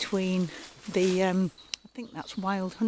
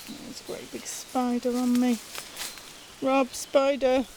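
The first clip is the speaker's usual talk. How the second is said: startled; 5 semitones higher than usual. Real, not acted. Spider crawling on the speaker.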